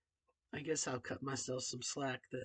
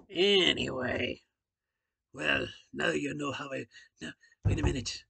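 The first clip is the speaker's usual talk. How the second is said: dropped-down voice; 8 dB louder than usual. Real, not acted. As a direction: settle the voice down into its own range. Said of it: "I'm gonna drop down".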